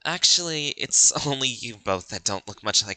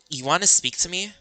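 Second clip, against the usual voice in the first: lightly raised, friendly schoolgirl voice; chatty classmate coaxing a loner, voiced a bit higher; cheerful girl character; 3 semitones higher than usual.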